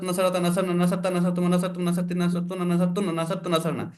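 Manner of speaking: quick rote recital of the forms; brisk drill recitation. Shown as a demonstration. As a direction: rattle off the conjugations at a steady clip. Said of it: "এরকম যেমন একটা speed".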